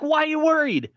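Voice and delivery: high, mock-surprised question. Mocking his co-host's question in a high voice.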